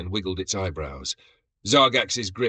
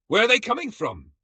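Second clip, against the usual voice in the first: much higher, frantic yelp; panicked cry; 14 semitones higher, 5 dB louder than usual. A narrator's reading. Warrior spinning in circles, panicked and high.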